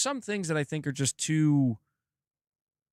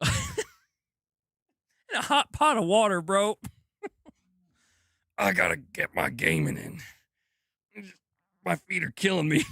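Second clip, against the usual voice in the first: words breaking into laughter; laughing through it; 5 semitones higher than usual. Real, not acted. Joking to chat about soaking old feet, laughing.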